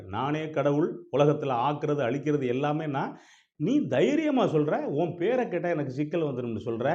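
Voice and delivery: mildly indignant, acted anger; affronted, with a touch of anger; angered God. God challenges the wounded man's threat, mildly angry. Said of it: "கடவுள் கோபமாயிடுறாரு".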